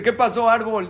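high, loud call to the tree; startled question. Acted. Jaim asking a weeping tree what happened, startled question.

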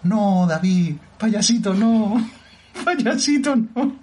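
mocking quote.

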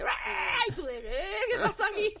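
high startled laughing yelp; mock panic like in Ghostbusters; scared. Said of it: "era rollo película cazafantasmas".

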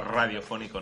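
RADIOFÓNICO with a trilled first R held long; radio-style R in "radiofónico"; long rolled R. Shown as a demonstration. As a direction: roll out the R of "radiofónico". Stretching R while praising it.

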